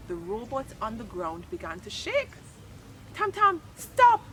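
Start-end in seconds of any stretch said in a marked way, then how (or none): 3.1-4.2 high, slow, loud alarmed shout. Acted. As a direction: yell to stop him, stretched out. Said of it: "shouted Ajamu".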